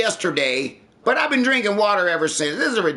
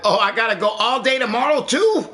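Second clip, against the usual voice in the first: laughing disbelief; 6 semitones higher than usual. Real, not acted. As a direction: react with stunned laughing outrage. Reacting to girlfriend's new demand.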